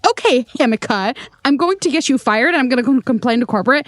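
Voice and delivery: fast mock tirade; hurried, half-strength rant; retold angry threat. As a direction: imitate an irate customer reeling off threats. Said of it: "she starts screaming at me".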